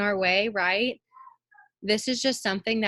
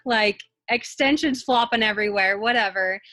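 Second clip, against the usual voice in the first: laughing; 4 semitones higher, 6 dB louder than usual. Real, not acted. Laughing about the pool scene.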